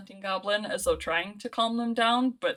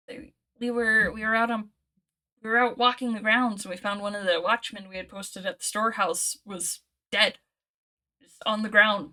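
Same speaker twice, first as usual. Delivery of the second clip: shaken goblin, urgent and raised; worried goblin; 4 dB louder than usual. Acted. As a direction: tell it like a frightened goblin pleading for answers. Goblin recounts the day.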